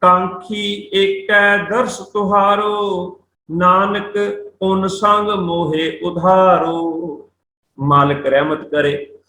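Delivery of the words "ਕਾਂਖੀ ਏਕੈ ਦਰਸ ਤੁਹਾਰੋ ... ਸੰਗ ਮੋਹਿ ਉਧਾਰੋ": slow, measured verse reading; scripture recitation. Shown as a demonstration. Teacher reciting Gurbani to students, slow recitation. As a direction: stretch out the words to close the verse.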